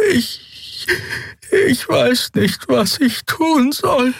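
high, slow, trembling little voice; small creature frozen in fear, high and slow; frightened small creature. Acted. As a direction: plead helplessly, very high and slow.

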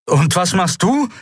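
high-pitched call over the noise. A narrator's reading. Kai calls over the ship's death throes, calling out. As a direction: call the question across a dying ship. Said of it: "rief Kai über die Todeswehen des Schiffs".

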